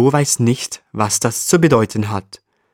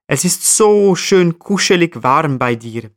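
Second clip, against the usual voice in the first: cheerful flea; 5 semitones higher than usual. Acted. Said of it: "Der Floh antwortet fröhlich".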